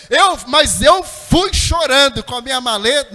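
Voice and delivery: loud, driving pulpit delivery; emphatic preaching. Real, not acted. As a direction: drive each phrase home to the congregation. Preaches the moral at force.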